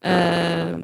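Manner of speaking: clipping, distorted voice; distorted mic. Real, not acted. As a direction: voice crackling through a bad mic. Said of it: "Continuas com a voz".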